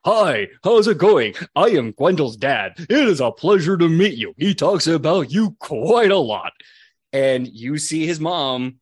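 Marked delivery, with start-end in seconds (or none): 0.0-6.5 a stiff proud dad being polite; lightly voiced courteous rogue father; Gwendol's dad. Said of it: "And he goes".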